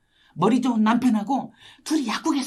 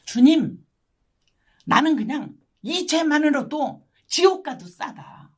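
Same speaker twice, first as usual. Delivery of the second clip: retold anguished confession; 5 semitones higher, 4 dB louder, slower than usual. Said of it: "얼마나 제가 통곡하고 회개했는지".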